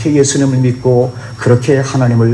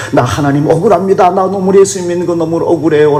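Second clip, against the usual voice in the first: mildly aggrieved plea, pitched higher; aggrieved protest; 4 semitones higher than usual. Acted. Believer protests unfairness before God, mildly aggrieved. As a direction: act out protesting an injustice to God. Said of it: "그렇게 하나님 앞에 항변해요".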